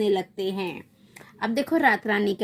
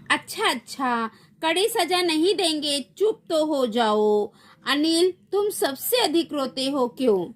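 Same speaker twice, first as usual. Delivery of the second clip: exasperated hushing; 4 semitones higher than usual. Acted. Exasperated adult to crying child.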